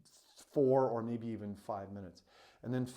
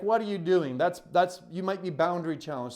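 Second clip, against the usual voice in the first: higher, louder urgent objection; agitated inner critic, pitched up; voice of doubting head; 5 semitones higher, 7 dB louder than usual. Retold or imitated. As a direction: act out your own mind scolding you. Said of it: "My head was telling me".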